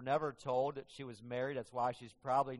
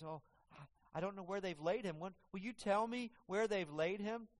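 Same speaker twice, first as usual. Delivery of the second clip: tearful pleading; 5 semitones higher than usual. Acted. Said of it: "She's crying".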